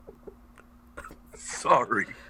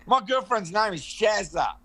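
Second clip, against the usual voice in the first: slow demonstration; slower than usual. Shown as a demonstration. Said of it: "Try that".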